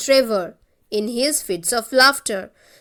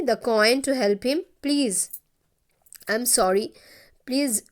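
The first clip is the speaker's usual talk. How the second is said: nervous apology. Acted. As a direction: act out a hesitant apology with small restarts. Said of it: "he was very nervous because of that".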